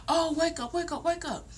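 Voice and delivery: high, soft mock wake-up plea; imitating urgent niece. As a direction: mimic a niece pestering you awake in a high voice. Niece urgently waking the sleeping speaker.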